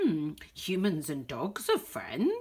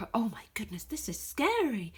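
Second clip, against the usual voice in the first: scared whisper; 2 semitones higher, 3 dB quieter than usual. Acted. Scared reader aside.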